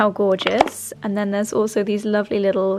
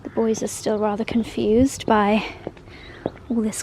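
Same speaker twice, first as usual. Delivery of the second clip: whispering; 3 dB quieter than usual. Real, not acted. Quiet aside about the dogs.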